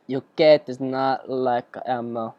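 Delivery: a slow, unconvincing attempt at British accent; botched British accent. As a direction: lightly put on a wonky British accent, drawing it out. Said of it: "talking in that accent. That's not even British".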